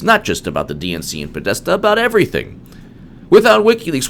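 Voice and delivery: lightly voiced media insider, pitch leaping way up on "about everything"; mock media voice. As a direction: sneer it out as the smug press.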